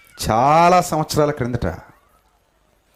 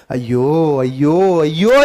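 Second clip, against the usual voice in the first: a building, half-acted "అయ్యో" lament; mock wailing; 4 dB louder, slower than usual. Preacher voicing John weeping at the vision, mock wailing. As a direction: cry "అయ్యో" rising and louder each time. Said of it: "అని ఏడుస్తున్నాడండి యోహాను".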